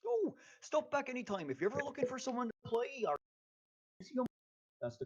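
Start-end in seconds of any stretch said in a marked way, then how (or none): 0.0-3.2 bright friendly merchant, much higher; chirpy host inviting them back; cheerful shopkeeper voice. Acted. Shopkeeper NPC farewell.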